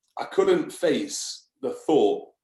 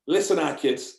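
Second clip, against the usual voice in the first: lightly put-on regional accent, mock; a hint of a northern mate's accent; terrible accent; 3 semitones higher than usual. Mate on the phone, imitating his regional accent. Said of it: "that's a terrible accent".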